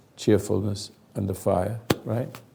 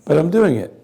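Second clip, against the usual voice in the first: raspy, gargling voice; rough voice like gargling; hoarse gargly voice; 3 semitones higher, 4 dB louder than usual. Real, not acted. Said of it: "Sounds like I'm gargling".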